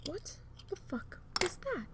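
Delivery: high, slow, hushed "What the fuck was that?"; baffled high squeak. Retold or imitated. Alone at home, hearing the dog howl, a high baffled squeak. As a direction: squeak it out in disbelief. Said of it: "and I'm like".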